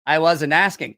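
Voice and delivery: flat, final, no argument; monotone. Retold or imitated. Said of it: "He always talked like this. M-, monotone".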